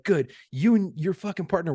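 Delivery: mock sarcastic supervisor; sarcastic angry boss. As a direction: sneer it at the guilty pair. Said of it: "And he's like".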